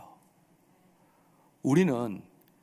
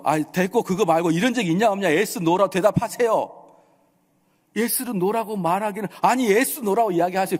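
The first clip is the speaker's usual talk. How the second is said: raised, louder courtroom interruption; impatient judge; 5 semitones higher, 4 dB louder than usual. Retold or imitated. Judge cutting off a rambling defendant, impatient demand. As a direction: cut off the defendant and demand an answer. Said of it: "판사가 뭐라고 하는지 아십니까".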